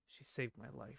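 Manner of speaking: mock, low, very quiet, deeply serious, convinced. Comparing a dubbed line with the subtitles: imitating a convicted, serious delivery. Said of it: "really convicted and, uh, spec-, you know, serious".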